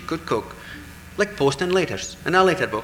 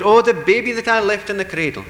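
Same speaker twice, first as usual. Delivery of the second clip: higher, louder wail for a lost treasure; a fairy wailing for what it left behind; crying out; 8 semitones higher, 5 dB louder than usual. Acted. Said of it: "One of them cries out".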